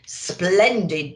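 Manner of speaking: booming Santa. Acted. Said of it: "boomed Santa".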